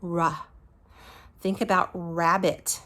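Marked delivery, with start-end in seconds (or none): 0.0-0.5 "ra" as a short "ruh" with a vowel; r with an added "uh" in "ra"; wrong r sound. Shown as a demonstration. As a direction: chop "ra" off as a syllable, not a held r. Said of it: "It does not say".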